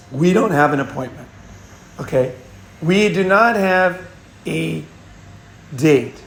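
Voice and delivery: firm, unbending. Retold or imitated. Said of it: "I would not budge".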